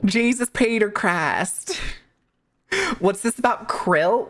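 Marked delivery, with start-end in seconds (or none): 0.0-1.8 imitated Midwest accent, slow on the curse; mock Midwest accent; shitty Midwest accent. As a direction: mimic a bad Midwest accent from a TV show. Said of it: "somebody says it like that".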